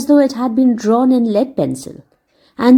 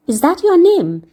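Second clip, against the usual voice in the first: put-on grave boy; 8 semitones higher than usual. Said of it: "looking at her gravely".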